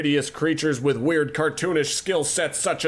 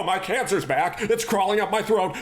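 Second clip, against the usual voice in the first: mock panic; 5 semitones higher than usual. Boss panics, cancer back.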